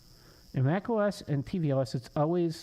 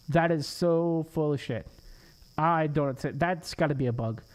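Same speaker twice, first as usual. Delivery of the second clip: frustrated rant. Real, not acted. Ranting that it's a bug.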